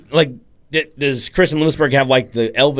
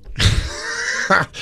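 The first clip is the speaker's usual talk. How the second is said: voiceless burst of laughter; 6 semitones higher, 3 dB quieter than usual. Real, not acted. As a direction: laugh at your own story. Laughs at his own Messi story.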